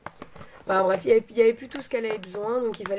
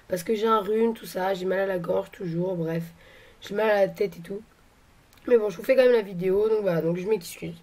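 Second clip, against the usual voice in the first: hoarse, sick voice from a cold; duck-like voice. Real, not acted. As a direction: talk through a sore throat. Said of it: "comme un canard en fait".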